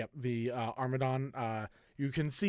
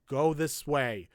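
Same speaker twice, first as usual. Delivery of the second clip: loud directing shout; 2 semitones higher, 5 dB louder, slower than usual. Acted. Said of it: "trying to direct them ... to be like".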